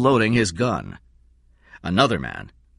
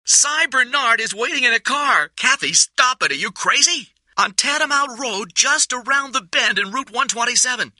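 high, rushed desperate voice; pouring out. Acted. Kathy blurts hiding places into the microphone, frantic. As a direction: spill every word out at once. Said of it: "words were pouring out".

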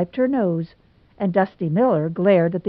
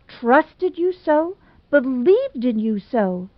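put-on higher, theatrical lament of a jilted girl; dramatic Hazel; 6 semitones higher than usual. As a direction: overplay the wounded romantic heroine.

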